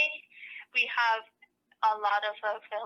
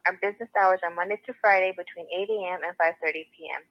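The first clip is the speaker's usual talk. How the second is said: phone menu voice. Real, not acted. After-hours recorded phone message.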